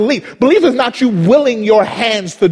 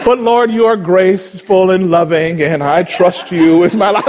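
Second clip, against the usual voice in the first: sudden pious calm. Retold or imitated. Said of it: "David would go off on God".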